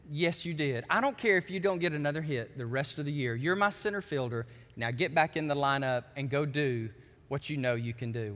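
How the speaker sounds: low, steady manager's voice; gentle reassurance. Retold or imitated. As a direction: reassure the young player quietly and firmly. Changed manager reassures the rookie.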